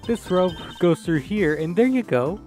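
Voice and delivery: put-on high, teasing girl voice; man doing a woman's voice. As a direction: tease him like a cheeky girl. Kay teasing the detective.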